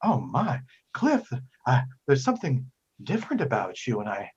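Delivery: a touch of swooning admiration, pitch swooping on his name; hesitant, flirty lady, lightly played; lightly voiced Madame Prose. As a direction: act mildly smitten, with halting pauses. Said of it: "and she goes".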